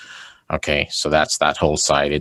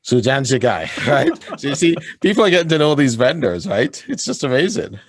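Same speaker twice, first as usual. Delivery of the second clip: excited; 9 semitones higher than usual. Real, not acted. Excited praise of vendors.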